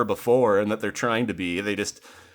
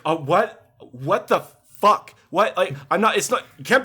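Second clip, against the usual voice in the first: mock disbelief; 7 semitones higher, 4 dB louder than usual. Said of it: "And it's like".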